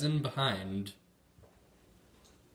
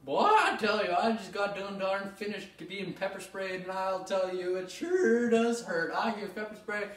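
hick voice; 6 semitones higher than usual. Acted. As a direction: play a twangy country interviewee. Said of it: "Now joining us, Billy Bob Newton Thornton".

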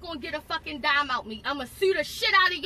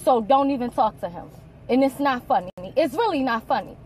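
louder, bitter and firm; angry retort; 4 dB louder than usual. Real, not acted. Mother snapping at officer over her son, angry. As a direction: shut him down, furious.

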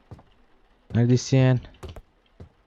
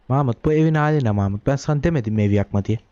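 mock scolding parent; 2 semitones higher than usual. Scolding baby again.

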